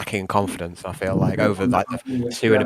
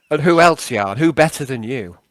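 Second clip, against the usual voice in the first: lightly voiced old-chap character; halting, over-polite character request; Nixius, politely wheedling; slower than usual. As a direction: coax a pal into minding the team. Nixius presses Yarn.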